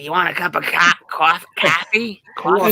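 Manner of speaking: New York "cawfee" vowel; groping for a New York accent; old-school New York accent. Shown as a demonstration. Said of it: "The New York accent, the old school".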